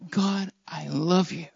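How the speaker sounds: slow, soft, low devotion; sincere. Acted. Preacher shows a heartfelt word to God, slow and sincere. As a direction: draw it out tenderly from a genuine heart. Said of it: "coming out of a genuine, sincere heart".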